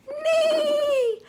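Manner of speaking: high, laughing neigh; whinny like a horse, playful. Shown as a demonstration.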